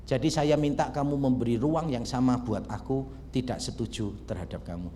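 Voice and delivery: disarm him gently; gentle, reassuring. Shown as a demonstration. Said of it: "Beda nggak sih pendekatannya?". (lembut dan menenangkan)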